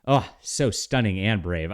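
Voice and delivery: sarcastic. Real, not acted. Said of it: "sarcastic praise".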